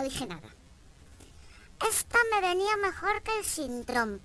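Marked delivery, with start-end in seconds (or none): 1.9-4.2 put-on old man catcalling. Old man in a wheelchair calling out to passing woman, high and loud. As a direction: play a cheeky pensioner calling out. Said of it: "Siempre me dicen algo".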